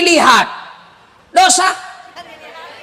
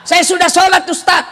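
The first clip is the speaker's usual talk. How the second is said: high-pitched mock protest; lightly acted indignant listener; protesting congregant; 5 semitones higher than usual. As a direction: object eagerly, pitched up.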